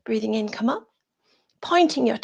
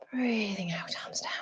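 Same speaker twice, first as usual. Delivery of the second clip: soft exhale cue; 10 dB quieter than usual. Shown as a demonstration. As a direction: draw it out softly like a long exhale. Guiding class through an exhale.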